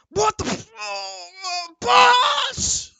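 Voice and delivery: high shouted surprise, cry of alarm; startled yelp. Acted. Guard caught off guard by intruder, high startled shout. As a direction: yelp it out in shock.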